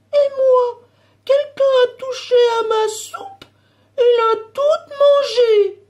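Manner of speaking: put-on very small, very high, tiny baby bear voice. Reading a story aloud, Baby Bear speaking: tiny little voice. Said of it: "la toute petite voix de bébé ours".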